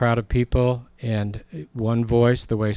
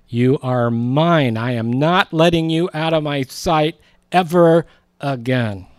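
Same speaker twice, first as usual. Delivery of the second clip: louder and higher, a mock cry of clinging; retold screaming; 4 semitones higher, 5 dB louder than usual. Mary Magdalene clinging to Jesus, retold screaming. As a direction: half-shout it, refusing to let go. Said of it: "and screaming".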